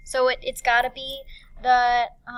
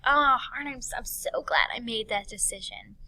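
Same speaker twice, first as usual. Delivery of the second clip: sighed "oh" easing into relief; happy sigh. Acted. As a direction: imitate a contented, relieved sigh. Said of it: "it's a happy sigh".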